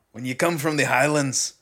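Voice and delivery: lightly attempted Highlands Scottish; Scottish accent. Shown as a demonstration. Demonstrating for a friend, tentative Scottish accent. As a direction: try a mild Scottish lilt. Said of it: "like that".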